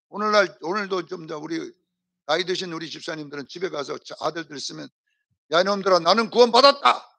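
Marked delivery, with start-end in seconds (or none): 5.5-7.1 loud, proud announcement to the sons; bold declaration. Shown as a demonstration. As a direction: declare it boldly to your sons. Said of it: "이렇게 말을 해야 돼요". (아들들에게 큰 소리로 선언하듯)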